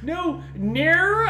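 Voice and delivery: loud, high mangled Aussie vowels; attempted Australian accent. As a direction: stretch out a bad Australian accent. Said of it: "Doing Australian".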